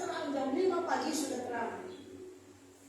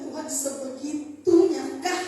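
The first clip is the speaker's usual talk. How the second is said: awed disbelief; 7 dB louder, slower than usual. Retold or imitated. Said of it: "Saya bilang".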